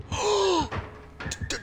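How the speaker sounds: breathless stuttering on the d; real frightened stutter that finally gets doors out; scared stutter. Real, not acted. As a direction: stammer out the word in fright. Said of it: "I'm sitting there stuttering".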